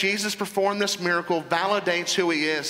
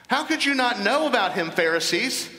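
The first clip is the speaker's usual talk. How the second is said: "know" pushed much higher, incredulous; preacher rebuking the Pharisees, pitched up in disbelief; raised in disbelief; 5 semitones higher than usual. Shown as a demonstration. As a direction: repeat it higher, stressing "know".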